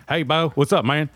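lightly put-on Southern greeting; easygoing Southern accent demo. Shown as a demonstration. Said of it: "With the accent, too".

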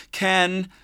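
put-on a high, gasping child's cry of a name; gasped name. A narrator's reading. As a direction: squeeze the name out between sobs. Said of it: "she finally gasped".

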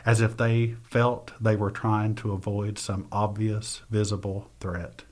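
measured, unhurried reading of her own prose; reading aloud. Acted. Author reading her memoir passage to the host, measured reading voice. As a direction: read the passage like a memoir excerpt.

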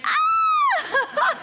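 very high, loud laughing shriek; surprised shriek. Retold or imitated. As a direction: let out a startled squeal. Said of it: "and she went".

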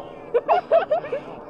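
high giggle. Real, not acted. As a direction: burst of high laughter. Laughing at the helicopter.

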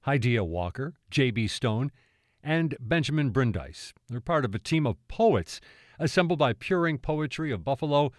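measured public-radio host read, firmly projected; radio introduction. Acted. Host introduces the poetry team to listeners, polished radio read.

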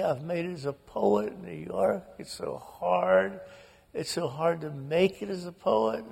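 lightly voiced distraught sister; beside herself. Sister telling brother father never said he was proud, mildly tearful. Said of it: "she is just beside herself".

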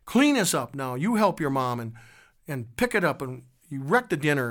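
put-on family scolding the girl for wrecking dinner, harsh; mock harsh order. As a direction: bark orders at a clumsy child. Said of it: "they called her names".

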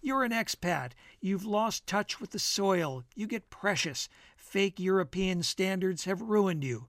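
lightly hammed-up, emphatic pronouncements; declaiming friend. Bill holding forth over coffee, lightly declaiming. Bill berates Jake as expatriate.

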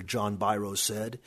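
usual speaking voice

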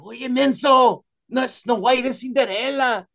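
very high mock yell at the nephew; yelling relatives. Relatives correcting the nephew at dinner, high mock yell. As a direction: scold him like the whole family at once. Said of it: "they're all yelling at him".

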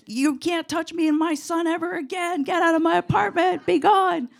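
hammed-up ghost banishing; mock exorcist command. Casting spirit out, exorcism command.

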